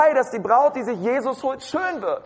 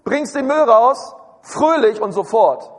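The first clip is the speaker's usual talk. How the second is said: louder, drawn-out mock motherly order; mother's chore request; 4 dB louder, slower than usual. Mother wanting the rubbish out cheerfully and at once, insistent. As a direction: imitate mum sending the kid off, firmly. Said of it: "Meine Mutter hat immer gesagt".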